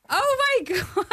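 overwhelmed, almost squealing; shocked gasp. Retold or imitated. Hearing Adam Sandler praise her film, a high shocked squeal.

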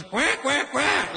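mock duck challenge; duck quack. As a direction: quack like a puffed-up male duck. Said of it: "He goes".

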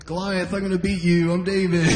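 kid playing. Kid Jesus playing with action figures. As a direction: narrate a toy battle like a kid. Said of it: "playing with action figures".

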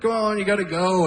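lightly voiced nagging Joseph; mock nagging dad. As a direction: hurry the kid along like a fed-up dad. Joseph voiced urging boy Jesus.

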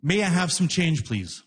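very polite. Retold or imitated. Rider asking the booth guy for change, very polite. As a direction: ask courteously, as if quoting yourself. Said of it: "Very politely, I say to him".

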